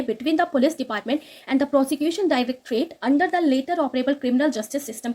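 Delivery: very slow, careful reading of English text; slow news read. Acted. Teacher reading the English news line to students, slow and careful. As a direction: read each word out slowly for students.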